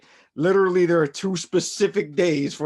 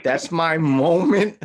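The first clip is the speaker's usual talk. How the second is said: laughing; 5 semitones higher, 7 dB louder than usual. Real, not acted. Laughing through his confession.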